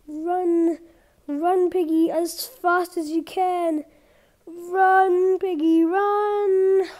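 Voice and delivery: being chased. Real, not acted. Urging pig to flee.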